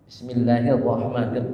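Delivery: Bismillahirrahmanirrahim recited with thin and heavy letters; recitation demo. Shown as a demonstration. Preacher models Bismillahirrahmanirrahim for the congregation, recited carefully. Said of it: "tipis dulu masuk, roh tebal".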